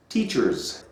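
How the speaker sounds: Teachers with a crisp final S; final S stressed. Shown as a demonstration. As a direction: lean on the S of Teachers. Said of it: "Not teacher, teachers".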